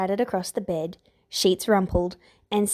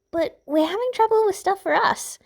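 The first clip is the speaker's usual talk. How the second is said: put-on morose girl; 11 semitones higher than usual. A narrator's reading.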